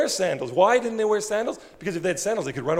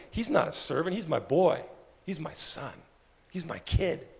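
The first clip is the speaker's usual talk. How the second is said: soft, lowered loving father; tender father; 5 dB quieter than usual. Acted. Father telling servants the boy is his son, softly tender. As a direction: quietly insist he's family.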